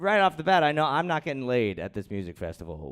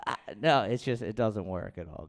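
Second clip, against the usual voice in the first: ordinary talk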